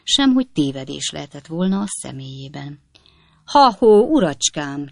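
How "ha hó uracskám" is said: loud, sharp hail across the yard; angry shout of hey there; angry call. A narrator's reading. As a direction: call him out angrily. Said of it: "kiáltotta szem mérgesen".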